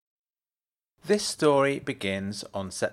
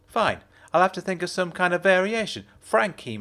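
Jenna's voice; 8 semitones higher than usual. A narrator's reading. Jenna's voice in dialogue.

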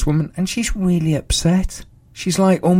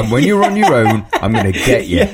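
lightly voiced sinister cat, a touch lower; a hint of a cat plotting revenge; mock threat from a staring cat; menacing cat voice; 3 semitones lower than usual. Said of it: "That's what the cat said".

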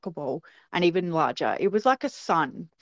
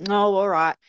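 mock-grudging, humouring sarcasm; sarcastic scoff; 3 semitones higher, 6 dB louder than usual. Mum humouring her giggling daughters, sarcastic. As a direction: scoff as you give in. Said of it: "just went sarcastically, scoffed a bit".

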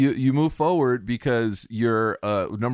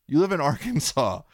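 laughing repeat. Real, not acted. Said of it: "I can't stress that enough".

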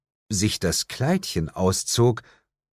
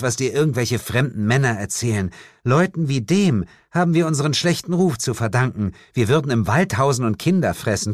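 lightly voiced witch, cool and dismissive; a hint of a haughty witch; 4 semitones higher, faster than usual. Witch rebuffing the hunter, lightly haughty. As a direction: brush him off like a proud witch.

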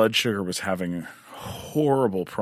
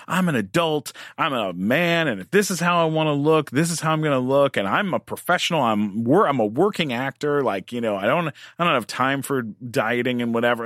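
raised, fast defensive outburst; defensive retort; 4 semitones higher than usual. Retold or imitated. Talking back to his disappointed mom, defensive and fast. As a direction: snap back at her, fast and higher.

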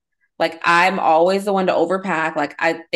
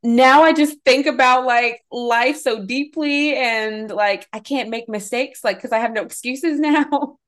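higher, slow, drawn-out mock lament; lamenting TikTok girl; 5 semitones higher, slower than usual. Retelling a TikTok about the frontal cortex, high, slow mock despair.

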